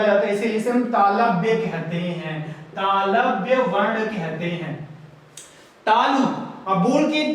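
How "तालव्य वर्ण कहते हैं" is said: slow, drawn-out teacher's repeat; slow term repetition. Shown as a demonstration. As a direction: stretch the new term out for learners. Teacher repeats new term slowly.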